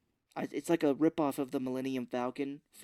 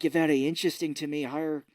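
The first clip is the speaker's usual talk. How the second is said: put-on Irish accent; 2 semitones higher, 6 dB louder, faster than usual. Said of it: "terrible Irish accent".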